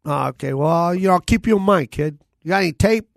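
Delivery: lightly voiced mobster, brushing him off. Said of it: "I'm doing, like, a mobster voice right now".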